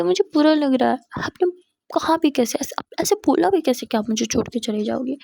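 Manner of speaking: crying hurt. Acted. Jia, still crying, asks Misha how she could say she would leave: tearful reproach. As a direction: sob out the hurt question. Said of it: "अब क्यों रो रही हो".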